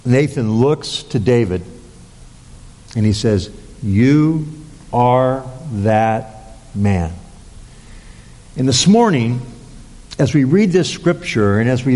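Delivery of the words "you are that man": very slow, word by word with a pause after YOU; solemn accusation. Retold or imitated. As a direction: set YOU apart, then land ARE THAT MAN slowly. Prophet's accusation voiced to David.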